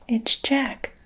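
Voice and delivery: a hushed giant's bellow; whispered bellow. Acted. Giant crying out about Jack, whispered bellow. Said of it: "bellowed the Flesh Lump Eater".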